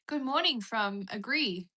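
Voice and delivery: hammed-up announcer. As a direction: read the shoutout like a grand host. Reading a shoutout grandly.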